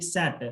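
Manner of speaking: "set" with lips open, an open "æ" vowel; correct set. Shown as a demonstration. Teacher explaining how to say the vowel. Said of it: "I open my lips".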